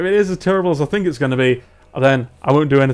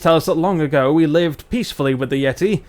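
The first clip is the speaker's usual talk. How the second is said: put-on lightly done northern English accent; Barnsley dwarf. Dwarf tells the story of the Yeti attack, light Barnsley accent. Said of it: "let's do our dwarves from Barnsley".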